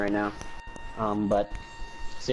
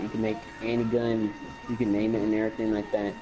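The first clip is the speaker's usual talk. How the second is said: put-on Texas accent. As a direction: talk like a Texan. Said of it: "why I'm talking in the Texas accent".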